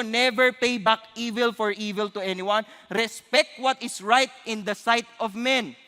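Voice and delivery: slow, measured Bible reading; scripture reading. Acted. Preacher reading Romans to the congregation, slow and measured. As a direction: read the verse slowly and deliberately.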